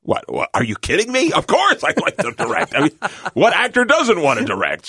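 overjoyed, can't believe it; excited. Retold or imitated. Retold excited reply to offer.

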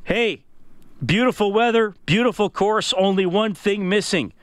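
upbeat announcer ad read; radio contest promo. Acted. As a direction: sell the golf giveaway with energy.

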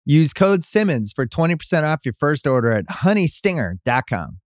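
podcast host ad read. Acted. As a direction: sell it like a pitchman. Host reads a sponsor ad.

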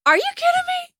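very high, loud incredulous shriek; reacting to in-laws, incredulous shriek. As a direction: shriek it, utterly baffled. Shocked by Mother's Day news.

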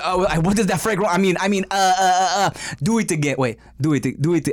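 fumbled try at an African accent; failed African accent. Shown as a demonstration. Retrying the joke for the co-host, botched African accent. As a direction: attempt an African accent and keep losing it. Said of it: "I can't even do it".

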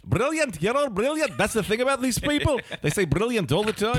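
put-on Scottish accent. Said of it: "It slips into Australian".

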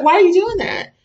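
a frantic mother's cry of alarm; alarmed shriek. Retold or imitated. Child chewing a battery.

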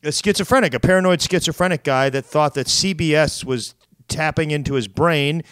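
ordinary talk

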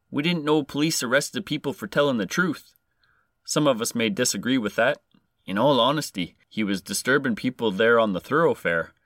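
lightly put-on Canadian accent. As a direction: read the constable with a touch of Canadian. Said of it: "trying to do a Canadian accent".

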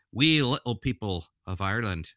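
briefly slipping into a bad Irish accent; terrible Irish accent. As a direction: do a half-hearted, badly faked Irish lilt. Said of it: "that's a terrible accent".

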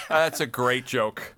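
slow words through laughter; chuckling praise; laughing. Real, not acted. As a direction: laugh while you repeat it. Reacting to Lampanelli joke.

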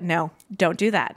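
low, slow imitation of a firm dad; lightly voiced father shutting an idea down; disapproving dad. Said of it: "and my dad went".

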